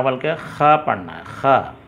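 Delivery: ख rasped from the throat as a rough xa; throaty khe. Shown as a demonstration. Teacher tells students ख comes rasping from the throat. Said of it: "हलक में खरखरी आवाज़ से निकलता है".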